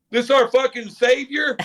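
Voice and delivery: high, slow sarcastic jab; mocking veteran. Veteran teammate mocking the new call-up, sarcastic and drawn out. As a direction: sneer it out as a teasing veteran. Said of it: "he's getting food, he goes".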